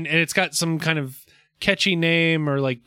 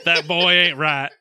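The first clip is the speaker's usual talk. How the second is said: slow cartoon Texan accent, amused; King of the Hill Texan. Co-host joins the Texas accent bit, slow amused Texan drawl. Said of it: "we both go into King of the Hill".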